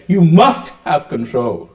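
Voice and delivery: slow, insistent inner voice; lightly voiced demanding self, drawn out; shameful inner voice. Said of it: "the shameful self says".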